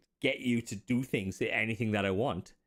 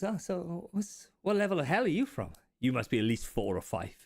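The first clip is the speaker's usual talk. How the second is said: high, far-off eager questioning; curious apprentice; 5 semitones higher than usual. Acted. Apprentice wizard asking his imp which hell level. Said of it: "he goes".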